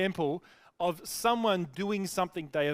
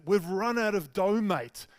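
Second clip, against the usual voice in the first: mock Italian accent, pitched up at first; 3 semitones higher, 4 dB louder, slower than usual. Big Italian guy to new kitchen helper, mock Italian accent. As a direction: put on your best Italian accent. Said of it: "This is my best accent".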